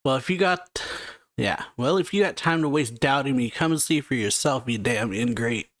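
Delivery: read-aloud angry yell of a betrayed admiral; mock angry yell. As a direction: throw it back at him with tearful anger.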